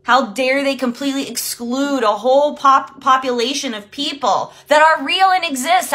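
indignant outburst replayed, stretched on the opening words; retold indignation. Coach replaying her reaction to the program, mad. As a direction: re-enact being outraged and affronted. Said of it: "I was so fucking mad".

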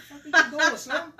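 high, loud alarmed question; startled outrage. Retold or imitated. Waking up drunk to his friend, startled and loud. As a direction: jolt awake and call her out. Wakes to her unbuckling him.

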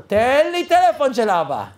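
retold firm order; insistent demand. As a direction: press each word insistently. Insisting over a refused request.

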